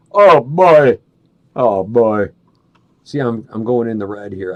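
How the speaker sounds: loud tinny broadcast sound; am radio. Real, not acted. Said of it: "So it can sound like A M radio".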